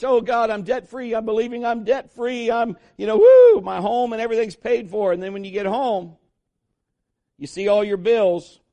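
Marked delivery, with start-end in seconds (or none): 0.0-5.1 a hint of hammed-up faith talk, bursting out on woo; playing the bold believer, lightly mocking; mock churchy confidence. A preacher mimics churchgoers, lightly mocking their upbeat confession. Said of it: "you say the right words in church".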